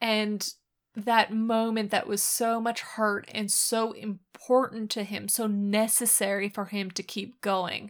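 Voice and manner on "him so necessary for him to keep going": ordinary talk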